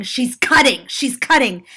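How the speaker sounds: mild mock yell, repeated like an alarm; imitated yell. Woman rallies people in line, mildly imitated yell. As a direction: raise it a bit to rally the crowd. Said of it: "by yelling".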